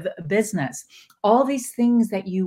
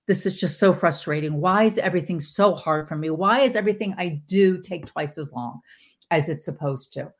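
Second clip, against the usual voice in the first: mild whiny complaining. Retold or imitated. A person whining about life, lightly whiny. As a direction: whine it lightly, like a tired complainer. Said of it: "in that really whiny way".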